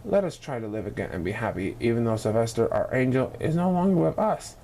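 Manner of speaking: low, gentle coaxing; a father trying to lift spirits; father's voice. A narrator's reading. Mr Duncan urging his grieving wife to cheer up. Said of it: "he said".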